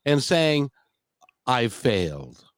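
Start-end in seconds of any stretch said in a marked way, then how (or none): 1.5-2.4 mock crying mom. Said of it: "she's crying because, and saying".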